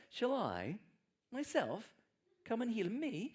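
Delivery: "I", "myself" and "Me" pushed up high and hard; stress on I. Shown as a demonstration. Preacher voicing Jesus to the congregation, stressing "I". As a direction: lean on "I" as if surprised to be asked. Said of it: "Jesus just underlining the I".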